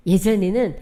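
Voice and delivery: normal talking voice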